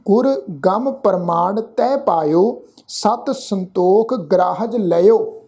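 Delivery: slow, careful verse reading with pauses; slow recitation. Shown as a demonstration. Teacher showing the sangat how to recite. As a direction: lay out every word for listeners to copy.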